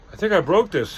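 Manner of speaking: high, loud Sasquatch squeak; high-pitched voice. A narrator's reading. Sasquatch confessing to the campers, surprisingly high-pitched voice. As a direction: pitch the big creature's voice up high. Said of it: "in a surprisingly high-pitched voice".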